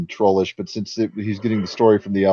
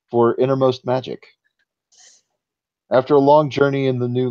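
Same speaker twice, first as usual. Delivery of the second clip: story narration. A narrator's reading. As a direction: read it like an old tale. GM reads the forest legend.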